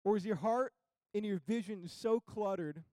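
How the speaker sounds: measured, emphatic pulpit questions with long pauses; earnest preaching challenge. Acted. Preacher asking church if they are willing, earnest challenge. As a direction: put each question firmly to the congregation.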